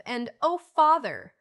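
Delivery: high, loud excited cry to his father; eager cry. A narrator's reading. Son rushing to hug his father, cries out excitedly. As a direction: burst out loud and high with joy. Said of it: "cried Jasper".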